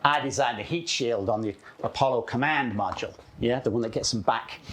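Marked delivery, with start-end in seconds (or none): 0.0-3.1 put-on American voice; American accent. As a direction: imitate the American engineer. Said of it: "Do you like my American accent?".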